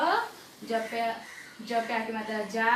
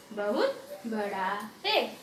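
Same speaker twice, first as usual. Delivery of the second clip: slow, lower model reading for beginners; 3 semitones lower, 3 dB quieter, much slower than usual. Shown as a demonstration. Teacher shows pupils how to read, slowly. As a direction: drag each word out slowly. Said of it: "इस तरह से आप धीरे धीरे पढ़िए".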